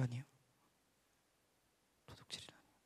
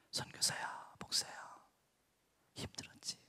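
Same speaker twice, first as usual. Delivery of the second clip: soft, hushed words of comfort; tender near-whisper, imagined comfort; consoling; 11 dB quieter than usual. Retold or imitated. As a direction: console a hurting pastor very gently. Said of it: "라고 적어도 위로하실 줄 알았습니다".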